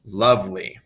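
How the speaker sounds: "lovely" said LOVE-ly, first syllable strong; stress on first syllable. Shown as a demonstration. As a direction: lean on the start of "lovely". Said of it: "more emphasis on the beginning".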